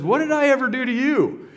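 high put-on donkey voice; talking donkey. Beaten donkey turns to his master, high donkey voice. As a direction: voice the donkey, pitched well up. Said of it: "the donkey turns around and says".

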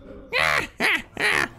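high, staccato evil cackle; cartoon boss's mock laugh; villain laugh. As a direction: cackle in short high bursts. Boss laughs after the threat.

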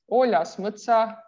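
Oljas mõtsa with a lifted first word; Livonian phrase. Shown as a demonstration. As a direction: stress OL in Oljas mõtsa, with an open ə in mõtsa. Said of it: "a green forest".

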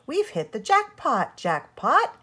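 high, bright with a grin; grinning. A narrator's reading. Mother delighting over the gold, grinning. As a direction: say it through a big grin. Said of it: "grinned his mother".

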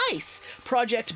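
"Ice" popped out high, then "Project"; any way you want. Shown as a demonstration. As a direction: punch "Ice" high and short. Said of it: "any way you want".

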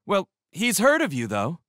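lightly voiced high kid; embarrassed kid. A narrator's reading. Embarrassed kid reassuring the stranger, in a kid voice. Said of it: "he said quickly to me".

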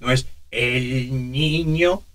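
put-on slow cracking old voice. Shown as a demonstration. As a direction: break the voice on purpose. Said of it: "cómo quiebro a propósito".

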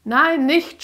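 put-on high, loud child's scream. Amy screams at the demon pushing her, high and loud. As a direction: shriek in panic. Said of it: "schrie Amy".

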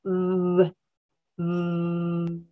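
low sustained "mm" buzz; long, steady hummed "mm"; voiced vibration demo. Shown as a demonstration. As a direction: hold "mm" so the throat vibrates. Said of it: "en la garganta siente vibración".

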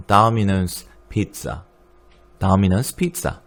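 Domino's said taminos, first o like 아, slowly; slow American Domino's. Shown as a demonstration. 강사가 학생들에게 천천히 발음 시범. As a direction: stretch out Domino's Pizza slowly, 아 then 오. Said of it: "앞에 오는 아처럼".

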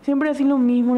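mocking nasty tone. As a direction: throw his words back, mildly mocking. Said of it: "en un tono muy hijo de puta". (imitación burlona leve)

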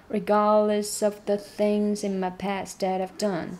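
slow take, done and past on the beat; stress on done. Shown as a demonstration. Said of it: "done要重读". (done要重读)

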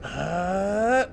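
rising grunt into a burst; ramming grunt. Pretend. Player demonstrating ramming a door, rising grunt. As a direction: grunt as if ramming something shut tight. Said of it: "Just ram your face into it, like".

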